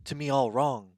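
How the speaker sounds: imitating a Shatner-ish Walken, odd pauses; a lightly voiced Walken impression, mock; Christopher Walken impression. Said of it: "But she says it".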